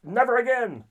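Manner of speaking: ugh, like tasting something awful; disgusted reaction. Retold or imitated. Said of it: "and they go".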